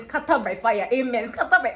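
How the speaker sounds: loud church call and response; mock preacher shout. Retelling prayer at church, loud mock shout. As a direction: belt it like a church amen. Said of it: "I was busy shouting".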